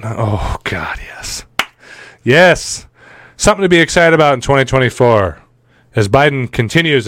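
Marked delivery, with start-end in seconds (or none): 0.0-2.9 breathy whispered delight; mock ecstatic whisper. Host mocking his own sadomasochism, in an ecstatic whisper. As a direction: whisper it like a guilty pleasure.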